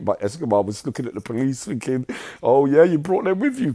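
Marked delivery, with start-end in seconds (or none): 2.4-3.7 suspicious. Retold or imitated. Escobar's suspicious thought.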